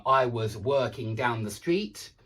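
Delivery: "working" said slowly with an er vowel; slow sample sentence, "working" where walking is meant; deliberate word mix-up. Shown as a demonstration. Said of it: "if you mix them up".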